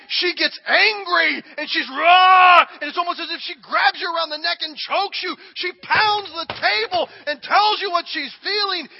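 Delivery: loud raw sermon peak; impassioned shout. Real, not acted. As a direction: pound it out with force. Describing the screaming emotion.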